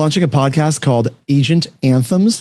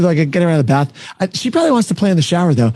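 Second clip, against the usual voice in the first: usual speaking voice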